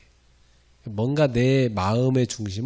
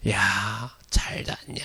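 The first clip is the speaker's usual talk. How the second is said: hoarse whisper; 3 semitones lower, 5 dB quieter, much slower than usual. Retold or imitated. Student greeting friend after shouted prayer, lost voice. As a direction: voice gone, only breath. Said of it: "목이 쉬어갖고".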